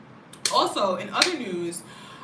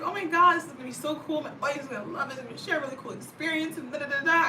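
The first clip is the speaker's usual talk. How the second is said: higher, gushing retold excitement; excited; 6 semitones higher, faster than usual. Recalling her hopes before moving, higher gushing excitement. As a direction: bubbly squeal of imagined plans.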